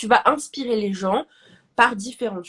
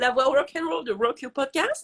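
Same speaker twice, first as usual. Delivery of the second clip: rock'n'roll voice; 3 semitones higher than usual. Shown as a demonstration. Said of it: "vous avez vu ce que peut faire une voix".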